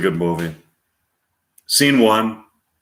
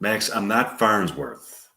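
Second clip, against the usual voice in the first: desperately; 2 semitones higher, slower than usual. Acted. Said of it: "Warren Beatty desperately".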